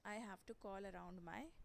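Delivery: slow example. Shown as a demonstration. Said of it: "जैसे आपने कहा".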